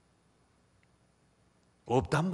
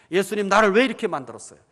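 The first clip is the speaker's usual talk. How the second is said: loud complaint; 5 semitones higher, 10 dB louder than usual. Acted. Paul's voiced complaint to Jesus.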